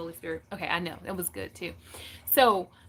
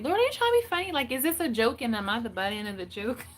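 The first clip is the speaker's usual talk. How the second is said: exasperated plea to God; faster than usual. Retold or imitated. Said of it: "I talk to him like that".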